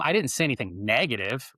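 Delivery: "negative" leaned on, rising at the end; "I didn't say anything negative" with the weight on "negative"; stress on NEGATIVE. Shown as a demonstration. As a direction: hit the word "negative" to hint it was neutral. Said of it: "Well, it might've been neutral".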